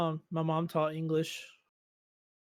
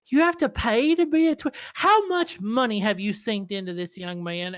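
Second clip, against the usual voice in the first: imitating a scandalized mom, pitched up at the start; lecturing mom; 4 semitones higher, 3 dB louder than usual. Streamer retells mom learning subs cost money, mock lecturing. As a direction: retell it as mom's mock scolding. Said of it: "And then I got a lecture".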